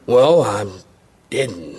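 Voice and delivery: mock embarrassed confession; sheepish. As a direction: admit it under your breath. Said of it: "I used to sheepishly say".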